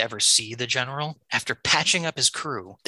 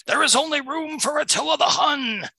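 roaring Attila. Acted. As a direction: bellow it like a conquering warlord. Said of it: "Attila roars".

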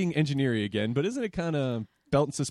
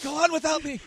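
high, dramatic dying plea; mock wounded hero; 13 semitones higher than usual. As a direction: play the fallen soldier. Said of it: "Then Amber's like".

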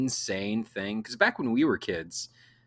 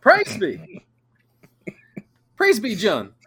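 mock praise; 10 semitones higher, 7 dB louder than usual. Mock congregation response.

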